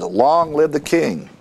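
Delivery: a restrained imitation of a cheering crowd; mock crowd shout. All the people acclaim the new king, mildly imitated shout. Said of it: "all the people shouted and said".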